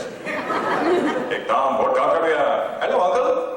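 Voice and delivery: imitating Hindi film dialogue with an Indian accent; drawn-out Hindi, then a high English tag in Indian accent; Hindi film impression. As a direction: play a Hindi movie actor with an Indian accent. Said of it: "They'll speak Hindi through the whole thing".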